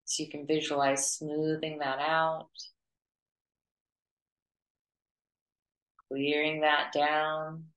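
even, unhurried meditation voice with long pauses; guided meditation. Acted. Teacher leading students to clear their auras, guided meditation. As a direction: guide them gently through it, pitch held level.

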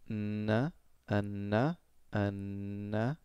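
"n, a, n" with only the tongue tip moving; tongue-tip drill. Shown as a demonstration. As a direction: drill "n, a" keeping the tongue sides tense. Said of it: "keep the sides of your mouth under tension".

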